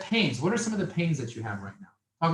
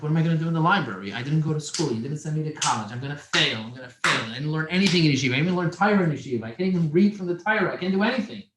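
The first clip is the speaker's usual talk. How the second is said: fast, louder worried rush to his mother; panicked protest; 4 dB louder than usual. Retold or imitated. Teen tells mother he'll fail, in a fast anxious rush. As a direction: spill out the fears in a hurry.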